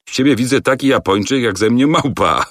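a hint of a teasing showman; mocking director. Director mocking the wanderer's disguise, lightly teasing.

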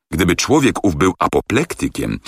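usual speaking voice

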